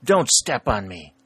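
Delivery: pained, pleading cry; weak exclaim. A narrator's reading. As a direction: cry out weakly in alarm. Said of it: "a weak voice exclaimed".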